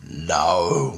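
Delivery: imitated deep, drawn-out voice; real deep voice. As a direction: drop the voice for a menacing figure. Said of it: "in a real deep voice".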